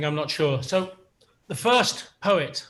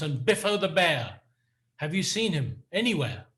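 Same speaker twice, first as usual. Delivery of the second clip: measured, deliberate poem recital with pauses; poetry reading. Acted. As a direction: read it like a poet at a reading. Reads Patten poem aloud.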